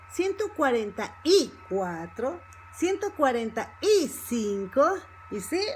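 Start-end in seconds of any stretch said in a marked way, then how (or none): 0.1-2.4 each word set apart, a clear stressed "y"; slower, separated words. Shown as a demonstration. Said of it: "ok, slower". 2.7-5.0 word by word, with "y" standing out; slower, separated words. Shown as a demonstration. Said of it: "ok, slower".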